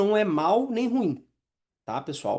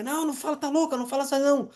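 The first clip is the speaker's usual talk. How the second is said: mocking inner voice; 8 semitones higher, faster than usual. The inner voice shutting down your idea in a meeting, high and mocking. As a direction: sneer it down as the doubting inner voice. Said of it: "Mas a voz fica".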